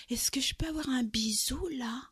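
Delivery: shy whisper asking for a kiss; whispered request. Retold or imitated. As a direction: breathe the question very shyly. Man shyly asks for a kiss.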